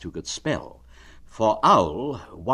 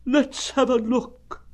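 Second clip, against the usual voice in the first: very slow, high, drawn-out mournful donkey; gloomy Eeyore; slower than usual. Acted. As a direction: drag it out like a sad old donkey.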